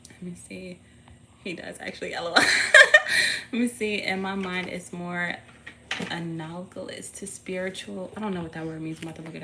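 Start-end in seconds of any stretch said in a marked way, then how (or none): 2.5-3.5 high, loud laugh; short burst of laughter. Real, not acted. Laughing along after saying LOL, high and loud.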